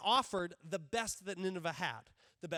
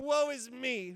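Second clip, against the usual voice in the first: mock dramatic sigh; 3 semitones higher, slower than usual. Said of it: "And he's just dramatic".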